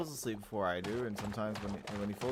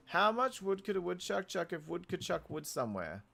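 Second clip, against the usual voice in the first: sing-song twister; 9 semitones higher than usual. Pretend. Tongue twister in put-on voice.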